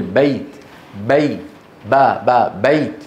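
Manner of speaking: بيت broken into با and بي, then whole; fatha before ya. Shown as a demonstration. Teacher breaks the word down for students, showing fatha before ya. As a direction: isolate the open a of با, then glide to y in بيت. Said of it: "فقبل الياء مفتوح".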